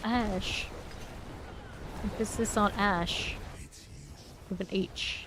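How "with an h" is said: a sly whispered aside; joking whisper. Acted. Aside to viewers after her pun, whispered. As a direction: whisper the punchline.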